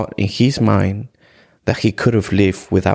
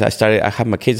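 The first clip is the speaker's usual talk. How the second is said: normal talking voice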